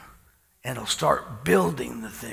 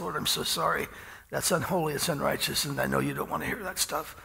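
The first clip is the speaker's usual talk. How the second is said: a touch softer, murmured apology prayer; under my breath; 3 semitones higher, 6 dB quieter than usual. Retold or imitated. Praying to the Lord after someone cussed, mildly softer. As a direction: quietly tell the Lord sorry, half to yourself. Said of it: "under my breath".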